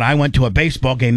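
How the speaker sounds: mock-imitating Dan, blurted out quick; tossed off fast, a mild mock brag. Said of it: "blurting out".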